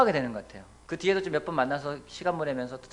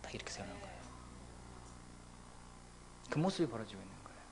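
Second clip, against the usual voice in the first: hushed whisper; 9 semitones lower, 17 dB quieter, faster than usual. Real, not acted. Preacher whispering as the beggar stands up, hushed. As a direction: breathe it out, barely audible.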